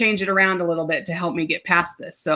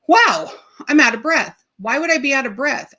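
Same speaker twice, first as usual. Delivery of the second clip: puzzled surprise; 5 semitones higher than usual. Retold or imitated. Recounting walking five feet and running out of breath, puzzled surprise. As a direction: retell being taken aback.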